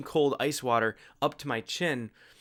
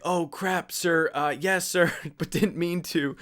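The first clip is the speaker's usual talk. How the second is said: tag; 5 semitones higher, 4 dB louder, slower than usual. Retold or imitated. Retold panicked answer to the instructor.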